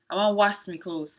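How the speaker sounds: "wash me clothes" in Sierra Leone Krio; Krio accent. Shown as a demonstration. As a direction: speak the line in Krio. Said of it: "we'll say".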